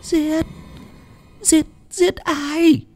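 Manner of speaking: very high, slow stammer; shocked, pressing question. A narrator's reading. Old lady aghast at news of a killing, pressing for the name. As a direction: repeat the word in horror, then ask. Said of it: "mà hỏi dồn".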